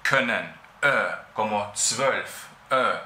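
können and zwölf with a short Ö. Shown as a demonstration. Teacher comparing short Ö words. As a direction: keep the Ö short. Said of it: "la vocal se pronuncia".

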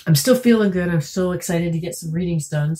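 raspy and congested from a cold; hoarse, stuffy voice with a cold. Real, not acted. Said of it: "my voice is a bit raspy".

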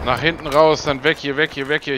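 loud urgent retreat order; urgent call. Real, not acted. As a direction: push the team out fast.

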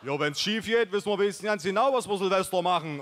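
fast, high, laughing gloom-joke; gloomy joking. Acted. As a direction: crack a doom joke through a laugh, lightly voiced. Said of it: "unkte Mike". (schnell, hoch und lachend unken)

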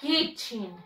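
Kitchen said softly, short i; model pronunciation. Shown as a demonstration. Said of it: "One more time".

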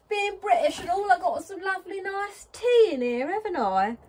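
loud, high-pitched hammed-up British accent; muddled British accent. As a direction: ham up a wobbly, uncertain British accent at full voice. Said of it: "I don't know what that accent was".

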